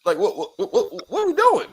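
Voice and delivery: high laughing what-what-what; laughing disbelief. Real, not acted. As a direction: laugh through the question in disbelief. Reacting to murder confession, laughing.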